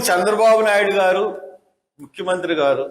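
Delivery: courteous naming of the chief minister; respectful address. Shown as a demonstration. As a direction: address him with proper respect. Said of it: "ఇది మర్యాద".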